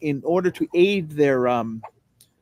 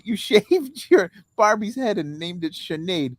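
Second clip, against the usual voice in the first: playful, high-pitched mock Irish accent; 6 semitones higher than usual. Comic teasing partner about Barbie, in mock Irish. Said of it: "I just said that in my Irish accent".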